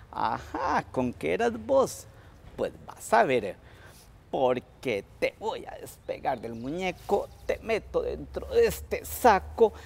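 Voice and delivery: the old woman threatens Tío Conejo, lightly voiced; old woman's threat. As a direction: gloat over the trapped rabbit.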